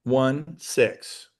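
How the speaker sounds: slow, spaced-out digits; dictating. Shown as a demonstration. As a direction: read each number clearly, pausing. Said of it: "Write this down".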